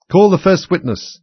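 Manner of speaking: loud, high, slow summons; royal command. A narrator's reading. King summoning a witness in court, loud command. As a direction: call it out grandly and slowly.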